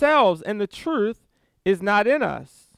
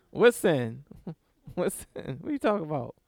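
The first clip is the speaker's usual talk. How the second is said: a touch of playing innocent, much softer and lower; mock innocence; 5 semitones lower, 8 dB quieter, faster than usual. Preacher voicing Adam and Eve covering up sin, soft mock innocence. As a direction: feign not knowing what sin is.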